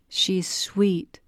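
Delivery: breathy hushed praise of the dog; stranger cooing over the dog, whispered. A narrator's reading. Woman petting the dog.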